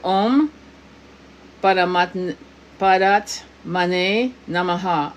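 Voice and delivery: slow, measured mantra; drawn-out, deliberate Sanskrit recitation. Shown as a demonstration. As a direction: teach the mantra slowly, word by word. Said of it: "the mantra that we're gonna do".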